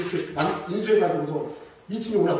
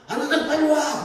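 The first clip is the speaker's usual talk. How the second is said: mock shout; 8 semitones higher, 5 dB louder than usual. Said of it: "막 가면서".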